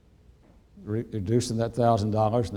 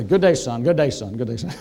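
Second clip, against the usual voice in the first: mock echo; 6 dB louder than usual. The committee's farewell echoing down the row. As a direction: repeat "Good day, son" fading each time. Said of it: "Little Sir echoes down the way".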